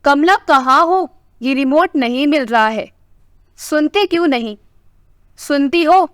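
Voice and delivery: husband lightly calling for his wife to find the remote. Acted. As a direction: call out to his wife in the kitchen, not a full shout. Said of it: "आवाज लगाने लगे".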